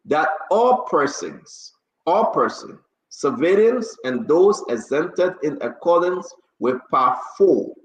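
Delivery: measured official read-out with stretched key phrases; formal order reading. Real, not acted. Host reads the order again for listeners, formal and deliberate. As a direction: read a decree aloud, phrase by phrase. Rereads executive order aloud.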